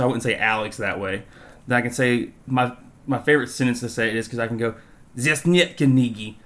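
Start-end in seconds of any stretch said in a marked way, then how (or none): 5.2-6.4 slow, heavy, menacing Russian phrase; aggressive-sounding Russian. Shown as a demonstration. Showing friends how harsh Russian sounds, slow and menacing. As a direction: say it like a threat in Russian. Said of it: "somebody be like, "What the hell did you just say? It sounds aggressive".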